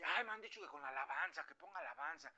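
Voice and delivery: high-pitched, put-on quote of someone in need; imitating a troubled believer. Someone feeling bad asks for praise music, in a high put-on voice.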